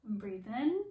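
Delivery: guided breathing cue. Shown as a demonstration. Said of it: "So here we go".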